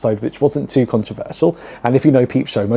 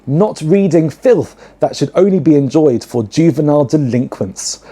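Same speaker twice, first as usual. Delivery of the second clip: quoting the stern lecturer; 3 semitones higher than usual. Retold or imitated. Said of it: "to give a quote".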